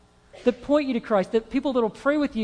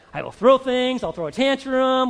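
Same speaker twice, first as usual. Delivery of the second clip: put-on loud, higher childish protest; mock tantrum; 4 semitones higher, 6 dB louder than usual. Imagining an immature response to trouble, mock tantrum. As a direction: act out a petulant outburst.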